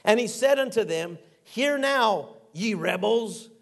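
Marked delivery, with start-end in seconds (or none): 1.4-3.5 higher, raised rebuke of an angry Moses. Retold or imitated. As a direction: scold the rebels from the rock, lifted and sharp. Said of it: "He's angry".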